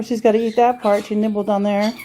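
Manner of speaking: ordinary talk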